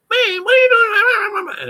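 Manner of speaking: high, slow retold shout; half-laughing, shouted disbelief; parents screaming. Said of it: "screaming on the phone".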